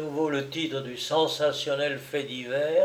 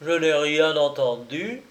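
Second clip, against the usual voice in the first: tragic calm; 3 dB louder than usual. Acted. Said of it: "avec le calme d'un personnage de tragédie".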